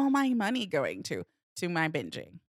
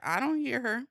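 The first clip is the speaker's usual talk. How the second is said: mock denial; 4 semitones higher than usual. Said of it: "I was like".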